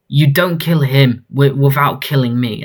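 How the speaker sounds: firm acted challenge; defiant insistence. Someone shields him from the killer, firmly insistent. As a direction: stand in the way, stressing DON'T.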